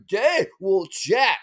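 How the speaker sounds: slow, drawn-out warning cry; mock panicked scream. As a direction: imitate a nervous passenger crying out. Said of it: "screaming in the background".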